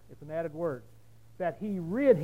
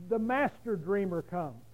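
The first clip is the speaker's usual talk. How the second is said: slow, weighted "master dreamer"; stressed master, slowed; slower than usual. Shown as a demonstration. Preacher giving the true wording, stress on master. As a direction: lean on master in "The master dreamer comes". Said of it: "In the language it says".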